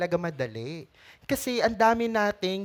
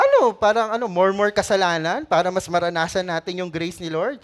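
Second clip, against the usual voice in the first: exasperated Paul. Retold or imitated. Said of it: "Gigil si Paul".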